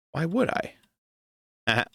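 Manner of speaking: drawn out slow, mock rhetorical question. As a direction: stretch it out as a dry joke. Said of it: "See what I did there?".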